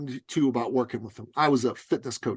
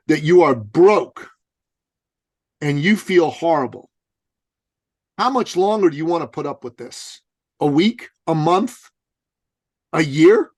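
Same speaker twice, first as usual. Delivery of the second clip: louder, pushing each question; pressing coach; 3 semitones higher, 7 dB louder than usual. Retold or imitated. Coach to broke young man, pressing louder. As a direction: hammer him with each question. Coach confronting him hard.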